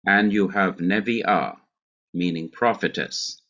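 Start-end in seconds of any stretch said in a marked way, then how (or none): 0.8-1.6 nevi'ah with the accent on the final ah; nevi'ah, short first syllable, stressed ending; stress on last syllable. Shown as a demonstration. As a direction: hurry through "ne" in nevi'ah and land on "ah". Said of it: "hurry from the first syllable to the last syllable".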